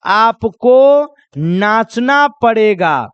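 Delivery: slow, drawn-out insistence; insisting guest. Acted. Wedding guest insisting you dance, drawn out. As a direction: drag out the demand to dance. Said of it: "जैसे शादी में कोई आदमी आपको कहेगा".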